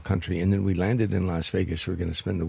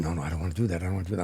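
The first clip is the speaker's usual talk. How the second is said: softer inner self-talk; 6 dB quieter, much faster than usual. Retold or imitated. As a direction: talk yourself out of crying, quietly. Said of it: "I said".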